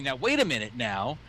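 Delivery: slow, drawn-out mock of "Now, wait a minute now"; mocking imitation. Friend parroting the blind man's protest back, slow and mocking. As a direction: stretch "Now, wait a minute now" slowly to tease him. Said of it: "now you're saying".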